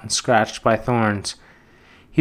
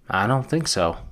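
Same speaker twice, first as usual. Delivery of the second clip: solemn; 5 dB quieter than usual. Acted. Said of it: "said this solemnly".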